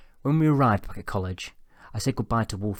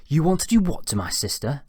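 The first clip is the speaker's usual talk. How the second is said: raised, higher voice, incredulous; loud indignant question; 6 semitones higher, 6 dB louder than usual. A narrator's reading. Pupil repeats teacher's remark before class, loud and incredulous. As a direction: say it loudly so the class hears. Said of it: "I said loudly".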